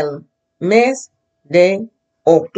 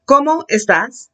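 "estás" raised high on its last syllable; voice up on accent; 5 semitones higher than usual. Shown as a demonstration. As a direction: let the voice climb on the "á" of "estás". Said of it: "accents mean your voice goes up".

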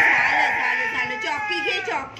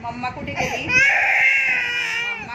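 high singsong distraction; 10 semitones higher, slower than usual. Real, not acted. Distracting a crying child.

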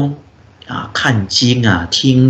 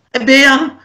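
high, loud alarmed yell; old layman shouting over about the broken glass, high and loud; 10 semitones higher than usual. Retold or imitated. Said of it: "就很大声喊".

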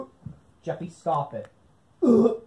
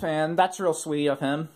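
sarcastic. Real, not acted. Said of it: "I mean, that's sarcasm".

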